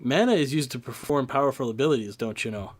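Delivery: put-on light Wisconsin accent, don't you know; folksy Wisconsin accent. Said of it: "that awful Wisconsin accent you just dropped into".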